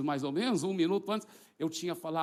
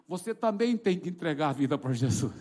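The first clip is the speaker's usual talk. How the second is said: louder tearful urging; imitated crying; 5 dB louder than usual. Crying wife urging her husband, imitated tearful and insistent. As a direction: urge through put-on sobs. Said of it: "E ela ainda chorando".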